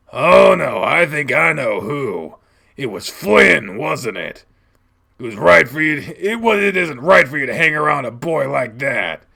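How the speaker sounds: loud, heated fatherly reprimand; angry accusing. Acted. Dad blaming child's friend Flynn, angry accusation. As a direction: build the accusation, forceful and stern.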